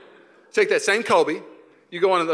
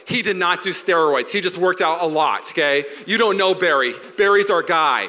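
defensive fan; 6 dB louder than usual. Acted. Voices fans defending Barry Bonds.

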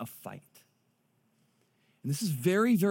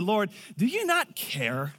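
indignant complaint; 5 semitones higher, slower than usual. Retold or imitated. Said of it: "and said".

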